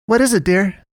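the fussing owner asks kindly; concerned Melinda. Acted. Melinda voiced high.

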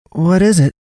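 high, sharp demand. Acted. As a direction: demand an answer. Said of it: "Naomi demanded of her".

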